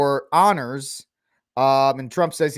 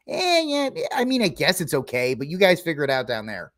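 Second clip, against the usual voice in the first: dismissive shrug. Retold or imitated. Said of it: "scotus can just say".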